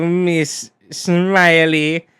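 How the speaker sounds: slow, drawn-out villainous purr; evil villain voice. Acted. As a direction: savour the name like a villain. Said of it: "my evil villain voice".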